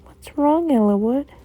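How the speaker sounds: concerned mother. Acted. Mommy walking over to crying Elwood, concerned and high. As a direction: voice a worried mommy checking on her child.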